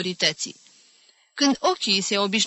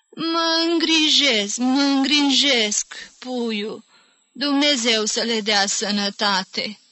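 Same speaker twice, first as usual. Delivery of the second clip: put-on slow, high, drawn-out old voice; old woman; 4 semitones higher, slower than usual. A narrator's reading. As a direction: stretch the answer, starting high and settling.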